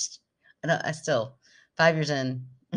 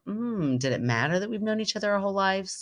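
pensive high-pitched wondering; musing listener; 6 semitones higher than usual. Pretend. Imagining triplets on their own podcast, musing. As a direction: ponder it aloud, voice lifted high. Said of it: "listen in and go".

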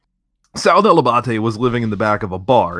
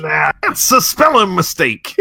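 mock shout; 7 semitones higher, slower than usual.

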